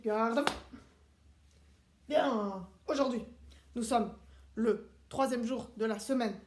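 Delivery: strict drill-sergeant teacher, clipped commands; drill instructor class. Acted. Seb drilling the children on the days of the week, strict commands. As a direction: run the class like a military drill.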